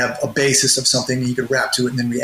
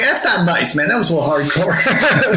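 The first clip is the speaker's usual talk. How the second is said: laughing; 3 semitones higher than usual. Retold or imitated. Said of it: "I'm like".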